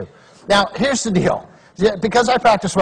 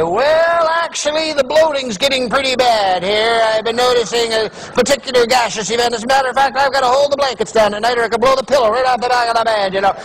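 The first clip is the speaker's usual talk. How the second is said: higher-pitched chatty confiding; mock oversharing; 3 semitones higher than usual. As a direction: ramble on as if truly answering. Over-sharing answer to telemarketer's question.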